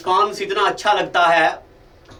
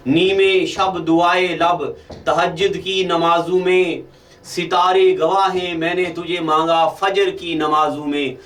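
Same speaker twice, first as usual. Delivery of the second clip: poetry recitation. Acted. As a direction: recite the couplet, savouring the opening words. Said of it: "सुनो अब शेर".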